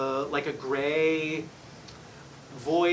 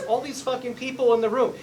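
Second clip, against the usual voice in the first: channelled son griping; 8 semitones higher, 5 dB louder than usual. Retold or imitated. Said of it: "He says".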